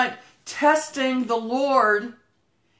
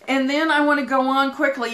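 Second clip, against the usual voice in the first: quick, hurried delivery; talking fast; faster than usual. Real, not acted. Preacher wanting to move on quickly, talking fast. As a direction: rush it along to move on. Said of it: "but I'm talking fast".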